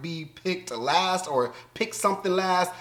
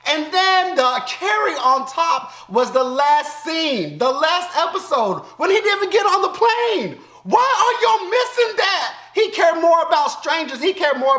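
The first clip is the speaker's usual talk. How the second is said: much higher, indignant shouting at the show; outraged rant; 9 semitones higher than usual. Real, not acted. Viewer ranting at the finale, shouting in outrage. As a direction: yell in real disbelief at the screen.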